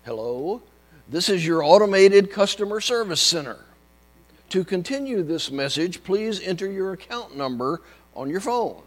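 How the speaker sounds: loud, measured automated recording; phone menu voice. Retold or imitated. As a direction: read it like a phone robot. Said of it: "It went something like this".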